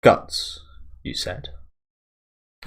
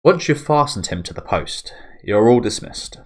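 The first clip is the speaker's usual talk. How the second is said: higher, louder imperious order; commanding noblewoman; 4 semitones higher, 4 dB louder than usual. Acted. Farnese dismissing her guards, higher and imperious. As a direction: dismiss them like a haughty commander.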